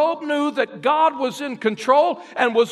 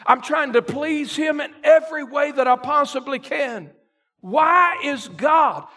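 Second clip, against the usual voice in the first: shouted preaching; 4 semitones higher than usual. Acted.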